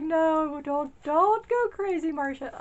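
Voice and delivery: high and loud, laughing through a mock warning to herself; laughing self-scolding. Telling herself not to splurge, high laughing scold. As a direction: tease yourself through giggles not to overspend. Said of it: "I was like".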